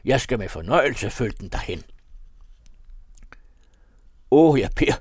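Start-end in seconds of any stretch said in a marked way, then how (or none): 4.3-4.9 high, very loud cry of alarm; panicked outcry, pitched up; scared shout. A narrator's reading. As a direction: shout out, frightened to death. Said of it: "råbte jeg, angst til døden".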